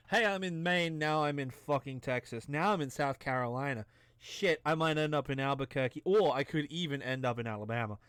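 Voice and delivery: roaming mock American regional accents; wandering American accent. Shown as a demonstration. Player mocking their own American accent, wandering American twang. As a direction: drift from state to state in a shaky American accent. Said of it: "fuck my American accent. It's like".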